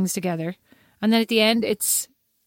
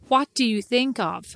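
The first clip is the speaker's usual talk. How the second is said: put-on American accent, drawn out; 2 semitones lower, slower than usual. Shown as a demonstration. Irish co-host demonstrating how Americans talk, put-on American accent. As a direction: try out a slow American phrasing. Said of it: "that amazing American accent".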